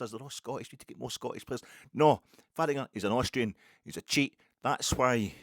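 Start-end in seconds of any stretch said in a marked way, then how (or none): 1.9-5.3 mock rant. Continues mock fan rant.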